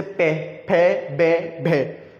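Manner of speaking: पे फे बे भे में said one by one, lips pressed together; teacher demonstrating पे फे बे भे में for the class; sounding out lip syllables. Shown as a demonstration. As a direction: close the lips firmly on each of पे फे बे भे में. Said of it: "होठ जो है आपस में क्या है? टकराते हैं".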